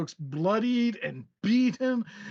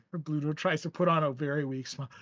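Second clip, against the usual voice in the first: ordinary talk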